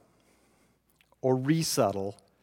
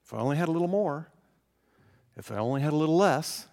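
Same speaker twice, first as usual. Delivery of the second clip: rushed recap; faster than usual. Shown as a demonstration. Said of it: "rushed recap of the wishes".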